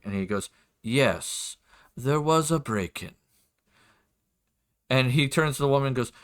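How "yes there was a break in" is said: lightly voiced measured lord; a hint of a formal nobleman, each word set apart; lord's voice. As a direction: confirm it as a deliberate, polite lord. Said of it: "do my best for his voice".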